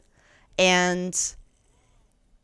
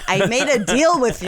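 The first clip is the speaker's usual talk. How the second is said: mock betrayal; 4 semitones higher, 3 dB louder than usual. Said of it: "oh, in my head".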